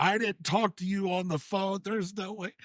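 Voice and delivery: high-pitched imitation of losing it; mock outrage. Imitating Billy losing his mind on telemarketers, mock outrage. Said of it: "absolutely lose his mind on 'em".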